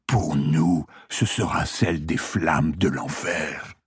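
a hint of a weak old patient; dying man voice. Dying patient speaks of hell.

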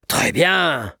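proud, lifted approval; congratulating. A narrator's reading. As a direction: applaud a daughter's effort. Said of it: "la félicita son papa".

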